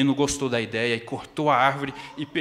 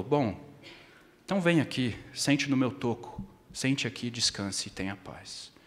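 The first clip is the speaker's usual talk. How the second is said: softer and softer, comforting; tender tree; 5 dB quieter than usual. Acted. The tree invites the tired boy to sit, softly fading. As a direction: lull him to rest.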